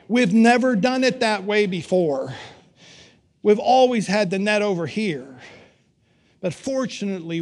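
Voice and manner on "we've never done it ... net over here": grumbling. Retold or imitated. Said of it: "disciples grumbling".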